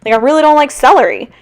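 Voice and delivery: playfully worked up over celery; getting mad. Real, not acted. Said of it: "I'm kinda getting mad about it".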